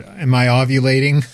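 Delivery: tinny, echoing loudspeaker voice; loudspeaker sound. Real, not acted. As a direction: sound like a PA system. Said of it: "You sound like you're talking over a loudspeaker".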